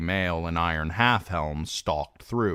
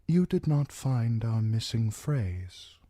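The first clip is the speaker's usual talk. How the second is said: cold Lord Bolton; 5 semitones higher than usual. Acted. Narrator voices Roose Bolton.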